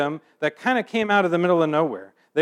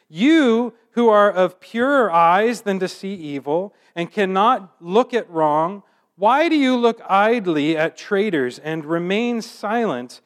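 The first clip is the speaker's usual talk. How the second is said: dramatic scripture reading; 2 semitones higher than usual. Acted. Reads Habakkuk's complaint from scripture.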